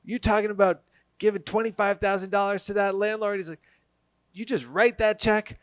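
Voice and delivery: hammed-up thick Italian accent, high and loud. Italian neighbour warning them off the landlord, loud Italian accent. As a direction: imitate a loud Italian pizza owner giving blunt advice. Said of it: "with a thick Italian accent".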